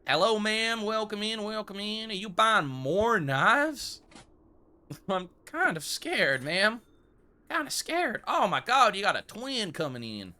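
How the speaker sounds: a lightly put-on posh shopkeeper voice; hammed-up regal shopkeeper; regal shopkeeper accent. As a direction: greet her like a grand old-time merchant. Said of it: "trying my best to stay regal".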